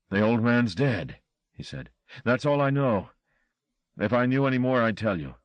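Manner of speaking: a touch of fear under bravado; scared chauffeur. A narrator's reading. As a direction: defend yourself with a dry throat. Luther voiced, frightened.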